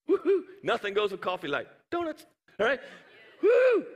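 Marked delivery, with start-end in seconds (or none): 0.1-0.5 excited whoop. Real, not acted. Cheering about donuts and coffee. 3.4-3.9 a sudden high, loud woo; shouted celebration cheer; excited whoop. Real, not acted. Cheering about donuts and coffee.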